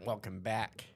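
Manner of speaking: slow, drawn-out show announcer; grand, dragged-out welcome; show opener. Pretend. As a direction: stretch out every word of the show's title.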